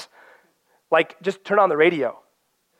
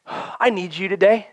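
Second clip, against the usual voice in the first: earnest prayer; 4 semitones higher than usual. Acted. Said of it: "go to the Word with this".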